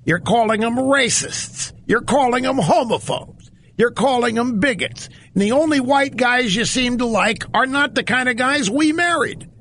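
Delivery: rising indignation, scolding; acted indignant rebuke. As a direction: voice a fed-up woman telling off a politician. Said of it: "And Angie's point is".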